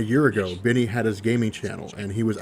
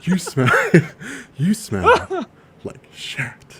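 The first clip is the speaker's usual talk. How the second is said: whispered, a little higher; whispering; 10 semitones higher, 5 dB louder, much slower than usual. Shown as a demonstration. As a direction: breathe it out as a whisper. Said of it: "you whisper it".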